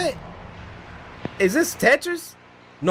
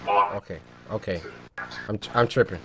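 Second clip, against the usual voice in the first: shaken by jump scare; 9 semitones lower, 6 dB quieter than usual. Real, not acted. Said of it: "That jump scare hit me so hard".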